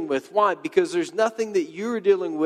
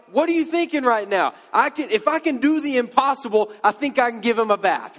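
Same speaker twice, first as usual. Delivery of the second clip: raised-pitch, mock-exasperated retort; incredulous Jesus; 5 semitones higher than usual. Preacher playing Jesus answering the stink worry, exasperated. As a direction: play baffled disbelief, pitched high. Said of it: "that's my response if I'm Jesus".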